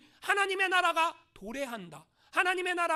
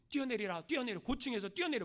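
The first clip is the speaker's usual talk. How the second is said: devil whispering; 4 semitones lower, 4 dB quieter than usual. Acted. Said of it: "마귀가 막 귀에다 대고 속삭이는 거야".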